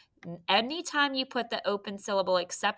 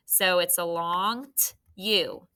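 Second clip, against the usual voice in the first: slow explanation; slower than usual. Shown as a demonstration. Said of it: "That's making that oo sound".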